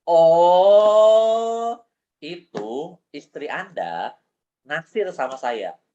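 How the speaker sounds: slow, hushed fortune-teller reveal; mock psychic. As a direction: deliver it like a trance vision, slowly. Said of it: "Saya terawang dulu".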